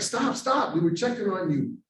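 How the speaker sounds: urgent stop. Retold or imitated. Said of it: "he was like".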